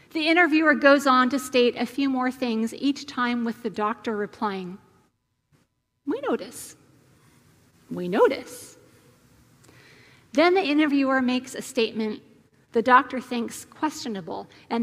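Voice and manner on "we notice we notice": put-on Swiss German accent. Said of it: "maybe a Swiss German accent".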